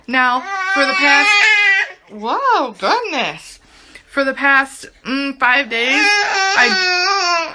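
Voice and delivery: real tears breaking through; choking up. Real, not acted. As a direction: catch your breath as emotion hits. Suddenly tearing up on camera.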